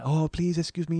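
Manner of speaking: put-on polite Japanese-accented interruption; imitated Japanese businessman; soft Japanese accent. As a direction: beg pardon gently in a Japanese accent. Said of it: "gonna do that Japanese voice".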